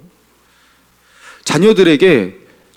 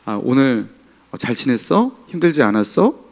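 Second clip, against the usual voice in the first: soft, gentle welcome-home voice; warm greeting; 3 dB quieter than usual. Shown as a demonstration. Pastor demonstrating a warm greeting to a spouse, tender. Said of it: "따뜻하게 말하는 게 있어요. 이렇게".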